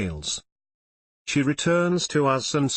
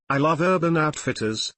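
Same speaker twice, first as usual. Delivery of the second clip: lightly flirty, higher; a touch of playful flirting; flirtatious; 4 semitones higher than usual. Acted. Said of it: "I say flirtatiously".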